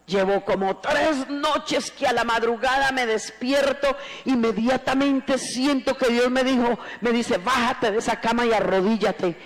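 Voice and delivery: rising, forceful church testimony; fervent testimony preaching. Acted. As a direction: testify with mounting fervour.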